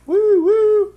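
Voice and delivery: high, loud train whistle hoot. Shown as a demonstration. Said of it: "I sound like a train".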